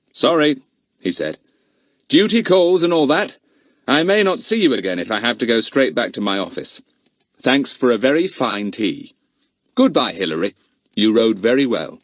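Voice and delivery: lightly voiced brisk inspector. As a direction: inspector saying goodbye to the children. Inspector takes leave.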